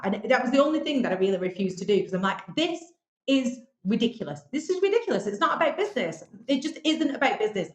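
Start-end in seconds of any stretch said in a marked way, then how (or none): 2.6-7.7 emphatic protest climbing higher on the repeat; retold indignation. Contestant recalls objecting to the task, indignant. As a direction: protest the absurdity, pitch jumping up.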